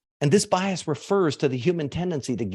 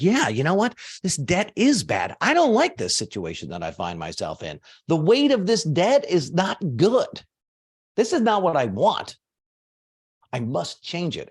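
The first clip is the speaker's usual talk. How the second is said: mock annoyed inner voice; 3 semitones higher than usual. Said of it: "starts to get angry".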